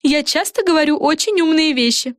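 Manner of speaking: high, self-satisfied fairy voice; fairy Fren. A narrator's reading. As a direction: Fren chiming in smugly. Френ. (высокий самодовольный голос феи)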